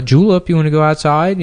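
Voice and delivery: high, coaxing voice to the dog; talking to a dog. Retold or imitated. Owner asking the old dog to go outside, high and coaxing. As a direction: ask the dog sweetly if it wants out. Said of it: "they would say to the dog".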